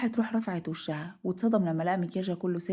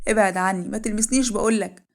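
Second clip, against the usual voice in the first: louder, mildly acted outburst; screamed rejection; 2 semitones higher, 7 dB louder than usual. Wife refusing husband's embrace, mock yelling. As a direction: push him away with a forceful raised voice. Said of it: "وفضلت روح تصرخ".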